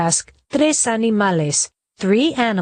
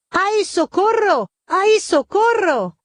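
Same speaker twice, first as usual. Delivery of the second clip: screaming for help; 11 semitones higher than usual. Acted. Culebra trapped under a tree trunk, screaming for help. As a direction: wail for help, trapped and desperate.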